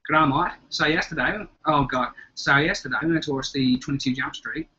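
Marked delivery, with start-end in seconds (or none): 0.1-1.4 stereotypical Aussie catchphrase to warm up; wobbly amateur Australian accent. Shown as a demonstration. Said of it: "get into the rhythm of the accent". 2.3-4.7 awful attempt at an Australian accent; badly done Australian accent. Shown as a demonstration. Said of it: "it's awful".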